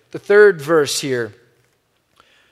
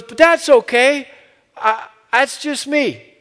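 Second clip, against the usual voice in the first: higher and louder, a resonant preaching cadence; imitating John Perkins; 7 semitones higher, 3 dB louder, slower than usual. Pastor retelling a civil rights elder's plea to leaders, higher, louder impression. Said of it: "He goes".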